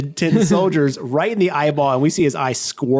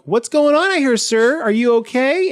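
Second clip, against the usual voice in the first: higher, polite worried voice; concerned staff; 8 semitones higher than usual. Retold or imitated. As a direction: ask with raised, caring concern. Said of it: "They came out and they're like".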